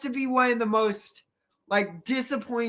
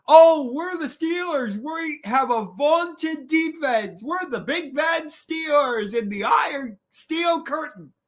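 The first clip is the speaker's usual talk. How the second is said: mock boastful; 4 semitones higher than usual. Mocking Steelers' boasting.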